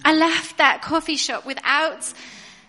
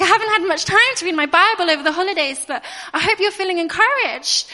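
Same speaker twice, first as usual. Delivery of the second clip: laughing through it; 4 semitones higher, 5 dB louder than usual. Real, not acted. Awkwardly encouraging a stranger.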